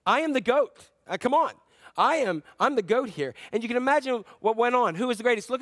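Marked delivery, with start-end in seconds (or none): 0.1-3.3 bragging disciple. Retold or imitated.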